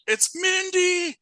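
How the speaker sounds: high drawn-out shout of a name; hammed-up possessed yell; mock possessed shout. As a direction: bellow it like a man possessed. Acting possessed psychic shouting.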